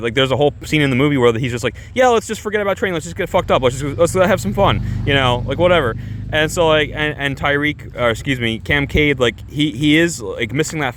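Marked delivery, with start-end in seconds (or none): 1.9-4.8 higher, quick, carefree urging; upbeat acted invitation to cut loose; party guy. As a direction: imitate a guy egging friends on to party. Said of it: "he's fun to party with".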